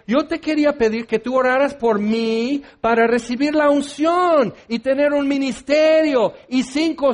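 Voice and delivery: rambling wish-list prayer, hammed up; mock pleading. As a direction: pile up requests like an eager child. Parodia de un creyente pidiendo cosas. (súplica atropellada en tono de parodia)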